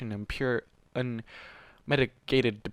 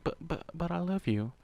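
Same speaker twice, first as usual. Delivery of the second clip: soft, pleading, a little higher; a light touch of a begging whisper; plaintive whisper; 5 semitones higher, 5 dB quieter than usual. A narrator's reading. Kuno to Warden, a mild plaintive plea. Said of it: "she whispered plaintively".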